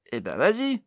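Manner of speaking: high, loud urging; loud acted exclamation; exclaiming. A narrator's reading. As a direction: egg him on with an excited call. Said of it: "s'exclama Pod".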